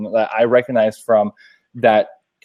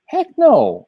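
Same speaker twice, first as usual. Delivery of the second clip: sharp, higher "Heck no"; retold refusal to the moving company, a sharp higher no; retold firm refusal; 11 semitones higher, 4 dB louder than usual. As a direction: shut them down flat out.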